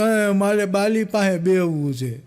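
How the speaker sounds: mock sobbing plea, drawn out slowly; a hammed-up weepy whine; crying bride. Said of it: "રોતા રોતા કીધું કે". (રડતાં રડતાં ધીમે બોલવું)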